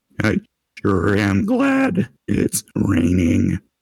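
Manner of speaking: very mechanical machine-like voice with swooping pitch. Retelling a movie scene where Ernest looks a man in the eye: Ernest's very mechanical voice. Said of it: "says in a very mechanical voice".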